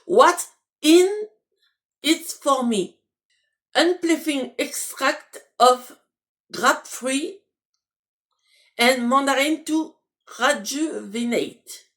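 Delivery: slow, careful English with a French accent. Real, not acted. Vlogger reading an English label aloud, slow French-accented English. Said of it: "je m'excuse d'avance pour mon anglais".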